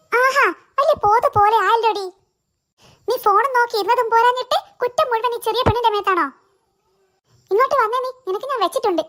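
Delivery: scolding mother. Acted. Mother scolds elder daughter.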